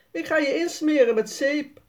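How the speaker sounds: mock call across the yard. A narrator's reading. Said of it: "roept Jasper".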